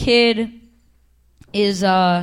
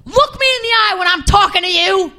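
higher mock stern bark; imitating a yelling cop; 8 semitones higher, 3 dB louder than usual. Retelling the cop who yelled at her, mock bark. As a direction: play the officer scolding, mock anger. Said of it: "she was yelling at me".

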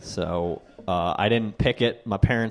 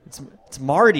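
Boston accent. Shown as a demonstration. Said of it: "built a Boston accent into my name".

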